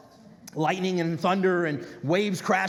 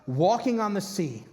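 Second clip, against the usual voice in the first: slow reading. Acted. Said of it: "here's what stands out the most".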